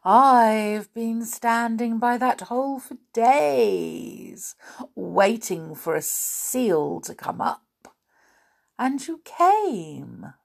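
slow breathy snowman whisper; a gentle snowman, hushed and slow; soft snowy voice. Acted. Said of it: "in a soft, snowy sort of voice".

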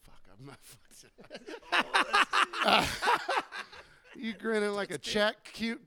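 high, loud mock coworker voice with laughing breaks; Caitlin impression. Imitating his coworker teasing him at work. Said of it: "impressions you can do of her".

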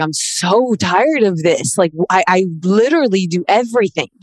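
worn-out, mildly acted lament; retold tearful exasperation. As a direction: stretch the words out as if reliving a tearful outburst. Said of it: "I was crying".

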